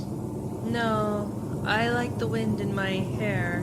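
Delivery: loud talk over the wind. Acted. Passenger tells the driver about the wind, loud. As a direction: keep the voice up against the rushing air.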